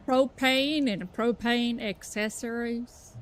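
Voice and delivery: put-on slow Southern accent, landing nearer Atlanta; attempted Texas accent. Player doing a catchphrase for fun, slow Southern accent. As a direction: draw out a shaky-aim Texas accent. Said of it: "Georgia accent, not a Texas accent".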